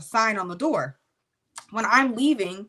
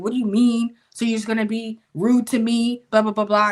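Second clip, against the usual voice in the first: louder, confrontational mock indignation; retold nasty attitude; 6 dB louder than usual. Drunk roommate's friend objecting to being refused snacks, nasty attitude. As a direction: act out her loud attitude. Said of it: "real nasty attitude".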